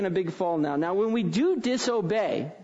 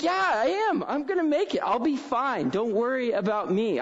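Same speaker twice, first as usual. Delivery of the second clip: put-on higher, eager kid voice, insisting; confident little boy; 5 semitones higher than usual. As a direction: play the boy sure he'll make the jump. Voices young son boasting.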